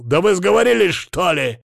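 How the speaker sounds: shocked outburst. A narrator's reading. Patient leaping up at her suggestion, loud and shocked. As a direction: jolt up in disbelief.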